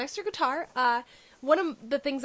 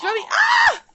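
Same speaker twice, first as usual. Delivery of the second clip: sudden high yelp; startled shout; 12 dB louder than usual. Real, not acted. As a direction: jump in surprise.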